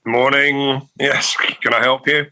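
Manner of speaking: put-on polite telephone manner. Shown as a demonstration. Host showing how they greet prospective clients, telephone voice. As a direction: greet like answering a client's call. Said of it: "your telephone voice".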